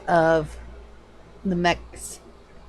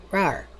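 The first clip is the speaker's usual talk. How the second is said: cat rawr; 5 dB quieter than usual. Pretend. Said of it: "I sound like a cat".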